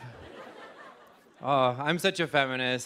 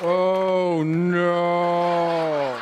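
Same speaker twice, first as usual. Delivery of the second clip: mock dread; 4 dB louder than usual. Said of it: "you're like".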